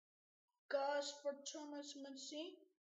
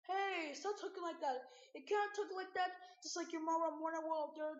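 pretend scolding; 3 semitones higher, 5 dB louder than usual. One character tells the other to stop talking, mock scolding. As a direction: play at scolding someone.

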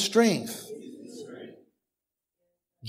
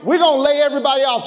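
boss voice; 6 semitones higher, 4 dB louder, much faster than usual. Acted. Boss announcing layoffs.

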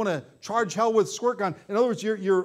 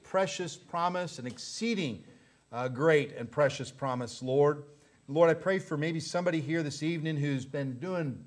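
subdued, earnest public prayer; closing prayer; 3 semitones lower, 3 dB quieter than usual. Real, not acted. Pastor praying for those battling the devil, subdued and earnest. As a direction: settle down and address the Lord, measured.

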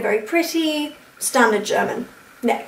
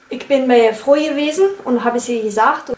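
Berlin accent. Shown as a demonstration. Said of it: "the G's become J's".

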